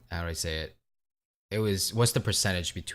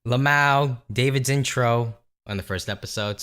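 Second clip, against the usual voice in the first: mock laughing fan; 6 semitones higher, 7 dB louder than usual. Quoting amused listener feedback.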